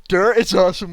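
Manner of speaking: imitating the text-to-speech; flat computer-style read; mock robot voice. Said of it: "with the robot voice".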